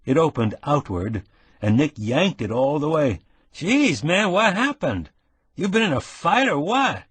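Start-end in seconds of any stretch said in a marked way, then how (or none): 3.5-7.0 higher, excited pal voice; brash young Harry. Acted. Nick bursts in on the wounded man, high and excited. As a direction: play the concerned buddy, eager.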